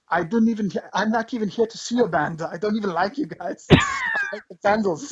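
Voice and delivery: a hint of an annoyed German fan; lightly mock the injured fan, unbothered and dismissive; grumpy German fan. Bleeding fan telling the band off, in a mildly mocking grumpy voice. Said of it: "He goes".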